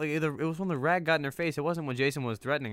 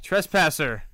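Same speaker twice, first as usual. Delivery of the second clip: louder stern accusation; menacing Jason; 4 semitones higher, 10 dB louder, much slower than usual. Retold or imitated. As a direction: growl out the accusation. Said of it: "He's like".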